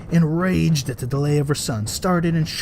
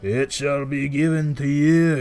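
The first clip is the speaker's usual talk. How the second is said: lightly voiced king; slower than usual. A narrator's reading. King answers.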